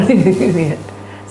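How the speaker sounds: short imitation of a sobbing friend; hammed-up little cry; mock whimpering. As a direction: whimper comically as if clinging. Imitates clinging friend crying.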